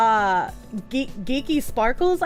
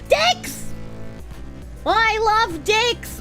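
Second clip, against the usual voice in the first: excited anime fan; 8 semitones higher, much slower than usual. Acted. Yelling a TTS line.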